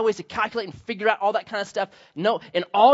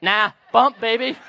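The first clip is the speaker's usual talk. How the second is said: laughing refusal; 5 semitones higher, 7 dB louder, slower than usual. Retold or imitated. Acting refusing handshake.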